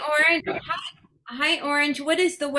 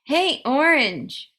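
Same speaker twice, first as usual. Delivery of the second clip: Hey, Orange drawn out slowly, each word stretched; deliberate slow Hey, Orange for the device; slower wake word; slower than usual. Shown as a demonstration. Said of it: "do it a little slower".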